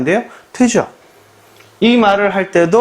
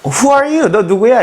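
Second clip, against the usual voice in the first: a hint of a dazed amnesiac, higher; lightly voiced confused stranger, much higher; 7 semitones higher, slower than usual. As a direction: play someone hit on the head, confused. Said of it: "해롱해롱 되고 있으면".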